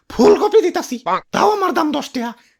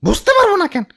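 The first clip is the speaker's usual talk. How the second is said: raised, indignant comeback; angry retort. Acted. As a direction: argue back with pitch climbing. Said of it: "ইয়া রাগ কইরো না".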